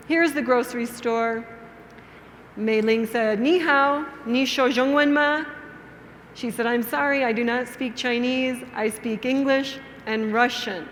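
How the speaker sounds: measured storytelling with clear pauses; story for beginners. Shown as a demonstration. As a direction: tell it simply, phrase by phrase, for language learners.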